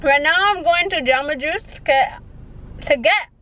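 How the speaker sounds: talking around retainers; slurred lisp from retainers. Real, not acted. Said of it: "a bad lisp".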